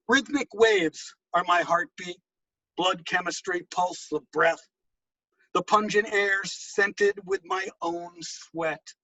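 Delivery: slow, intimate recital; poem reading. Acted. Poet reading Broken Rainbow to the audience, slow recital. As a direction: savour each sensory image.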